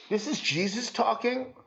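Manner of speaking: rising, disbelieving question on is; incredulous question. Real, not acted. Preacher asks the congregation in mock disbelief, rising. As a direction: ask it as if you can't believe it. Repeats as answer.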